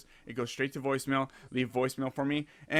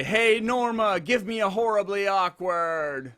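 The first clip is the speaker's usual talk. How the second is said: drawn-out, raised intro call; show intro call; 6 semitones higher, 4 dB louder, slower than usual. Shown as a demonstration. Host showing guest the intro line, drawn-out cue. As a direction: stretch the words out like a show cue.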